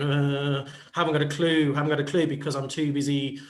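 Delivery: muttered, low mock-helpless excuse; clueless kid in the corner, hammed up a little; nervous wreck. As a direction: play a lightly flustered nervous wreck. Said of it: "like the nervous wreck going".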